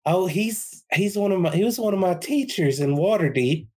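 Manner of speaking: Volo character voice. Acted. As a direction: greet him like a favourite pupil.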